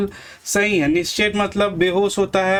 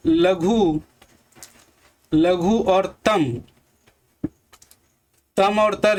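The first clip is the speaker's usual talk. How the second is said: slow breakdown; slower than usual. Shown as a demonstration. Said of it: "यहाँ पर देखिए मित्रों".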